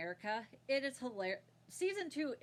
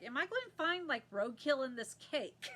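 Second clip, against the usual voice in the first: mock Southern baker, pitched up; Southern accent; 3 semitones higher than usual. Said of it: "He talks just like that".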